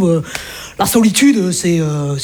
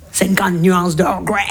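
slow joke title; much slower than usual. Acted.

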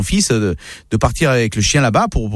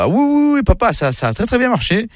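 over-eager bluffing; 10 semitones higher than usual. Acted. Son lying to his father on the phone, over-eager. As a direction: bluff with overdone, high-pitched assurance.

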